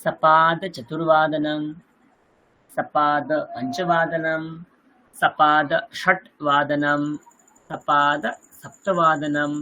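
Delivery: slow, syllable by syllable, each term drawn out; slow recitation. Shown as a demonstration. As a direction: recite each Sanskrit time term slowly for the class to copy. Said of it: "চারটে পনেরো". (ধীরে ধীরে আবৃত্তি)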